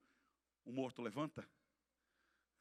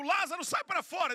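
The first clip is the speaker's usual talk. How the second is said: high, raised command in passing; retold shout; 11 dB louder than usual. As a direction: quote a cry loudly without stopping. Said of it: "se ele desse um grito".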